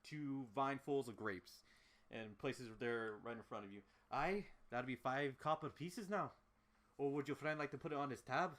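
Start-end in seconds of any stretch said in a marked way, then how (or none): 4.1-8.5 lightly done Scottish-Irish barkeep; Scottish-Irish accent. Acted. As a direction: ask for payment with a Scottish-Irish lilt. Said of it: "Scottish-Irish accent".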